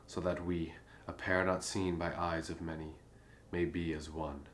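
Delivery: measured, understated love-poem reading; poem recitation. Acted. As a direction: recite formal verse to a queen, pausing between phrases.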